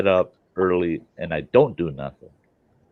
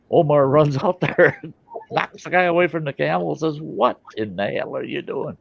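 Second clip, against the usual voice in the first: excited telling; 9 semitones higher, 5 dB louder than usual. Retold or imitated. Omar storms out at the guy.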